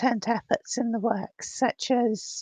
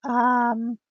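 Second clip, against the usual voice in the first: glitching audio. Real, not acted. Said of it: "my voice is distorted".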